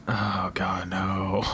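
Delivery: a breathy, slow, real groan of disbelief; exasperated whisper. Real, not acted. Fan whispering in dismay about Batfleck's voice modulator, exasperated whisper. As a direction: whisper it like you can't believe they did it.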